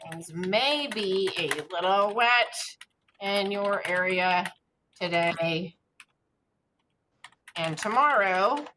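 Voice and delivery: slow, word-by-word dictation. Shown as a demonstration. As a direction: spell it out as you type, slowly. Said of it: "it should sound, you know, kinda conversational".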